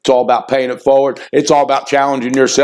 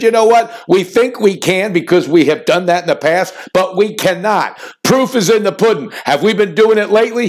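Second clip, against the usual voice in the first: retold fired-up coach; 4 semitones higher than usual. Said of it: "He got all fired up at the reporter".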